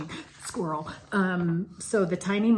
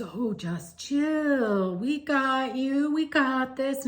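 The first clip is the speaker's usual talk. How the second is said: slow and higher, easygoing surfer calming the ladies; laid-back surfer dude; 7 semitones higher, 5 dB louder, much slower than usual. Retold or imitated. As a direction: drawl it out, totally unbothered. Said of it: "He goes".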